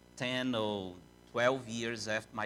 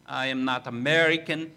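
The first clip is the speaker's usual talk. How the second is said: quoting Graham Peacock; 2 semitones higher, 5 dB louder than usual. Retold or imitated. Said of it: "he stood up and said".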